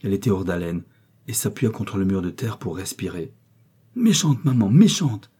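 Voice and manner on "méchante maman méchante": put-on higher, louder child's accusation; emboldened child. A narrator's reading. Little boy defying his gentle mother, emboldened and insistent. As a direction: push the insult like a cheeky little boy. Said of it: "s'enhardissant devant cette douceur".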